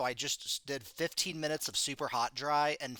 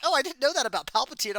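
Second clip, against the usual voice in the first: high, loud mock Nick voice; imitating Nick; 11 semitones higher, 8 dB louder, faster than usual. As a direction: imitate a clueless friend, pitched up. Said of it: "Nick just was like".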